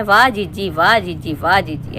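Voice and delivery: low, sing-song mock cheering, dropping steadily; mock praise. Mimicking fawning viewers who praise whatever she does, mock praise. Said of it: "उनको बोलना है".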